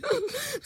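high, catching sob; a choked little sob; tearful sob. A narrator's reading.

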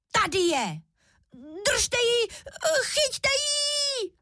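very high, building excited cub cries; tiny shriek. A narrator's reading. Little cub calling his parents to catch the girl, very high frantic shrieks. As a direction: shriek for help like a frantic baby bear. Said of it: "začal svým tenkým hláskem křičet".

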